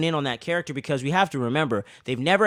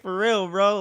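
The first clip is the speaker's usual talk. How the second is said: laughing disbelief; 5 semitones higher, slower than usual. Real, not acted. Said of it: "I was like".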